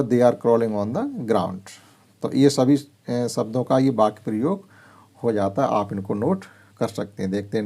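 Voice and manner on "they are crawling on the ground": reads the English sentence very slowly, word by word; slow clear reading. Shown as a demonstration. Teacher reading an example sentence to pupils, very slow. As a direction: spell it out slowly for the class. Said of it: "तो वो हमने लिखा हुआ".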